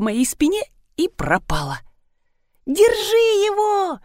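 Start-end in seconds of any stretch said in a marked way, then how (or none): 2.7-4.0 high, slow, crying shout. A narrator's reading. Rina shouts to catch the wet creature, high and crying. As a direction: yell for someone to catch him. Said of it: "закричала Рина".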